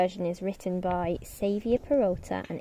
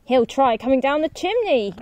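gasping pig; 4 semitones higher, 4 dB louder than usual. Acted. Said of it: "gasped the third pig".

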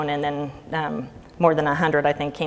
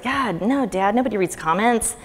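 breezy dismissal; 5 semitones higher than usual. Retold or imitated. Brushing off dad's worry.

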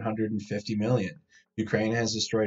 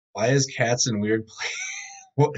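surprised outburst; 3 dB louder than usual. Real, not acted. Surprised by odd cat images.

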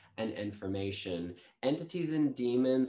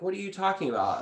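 the client's question, pitched high and a bit louder; mock confusion; 10 semitones higher, 5 dB louder, much faster than usual. The client asking about her changing voice, puzzled and high. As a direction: imitate someone puzzled by your voice.

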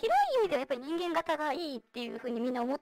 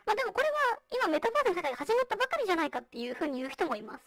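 vocoder. Real, not acted. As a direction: voice changer voice. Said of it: "今私がやってるようにボイスチェンジャー使ってる". (ボイスチェンジャーの声)

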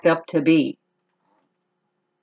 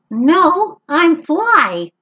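high, tiny fly voice; a hint of a little fly; lightly voiced fly; 11 semitones higher, 4 dB louder, much slower than usual. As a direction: buzz it out small and quick. Fly answers Max.

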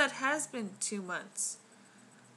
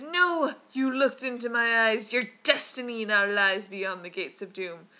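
loud threatening temple god; dark lord; 5 dB louder than usual. Retold or imitated. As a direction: thunder the curse at intruders. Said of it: "my favorite one is".

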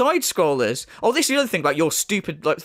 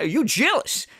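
mocking taunt; 5 semitones higher, slower than usual. Mimics critic pulling jealousy card.

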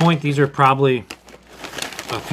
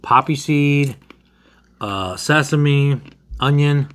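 talking while eating cracker; eating a crunchy snack; mouth full, chewing; slower than usual. Real, not acted. Seen 1: Bearded man holds cracker at mouth, bites and eats while naming.

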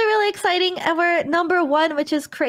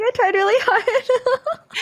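cutesy drawn-out; 7 semitones higher, slower than usual. Acted.

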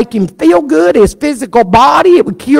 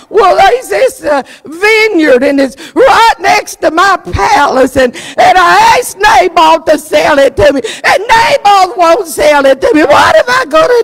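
whiny sulking king, voice pitched up and near tears; pouting king; 3 semitones higher than usual. Acted. Ahab complaining to his wife about the vineyard, pouting and whiny. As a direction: whimper like a spoiled child denied a toy. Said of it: "Ahab pouted".

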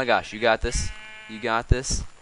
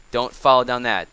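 urgent warning shout; 10 dB louder than usual. Real, not acted. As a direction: call out loud and sharp at the cow. Warning the cow near a drop.

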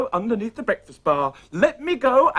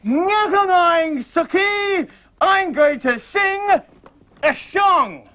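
dummy voice; 5 semitones higher, 5 dB louder, much slower than usual. Acted. Dummy voice of Eli.

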